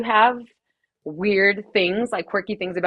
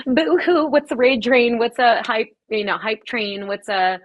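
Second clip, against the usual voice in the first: mock whining; 3 semitones higher, 3 dB louder, slower than usual. DJ mimicking her frustrated beginner self on Twitch, mock whining. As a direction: play up a clueless beginner's complaint.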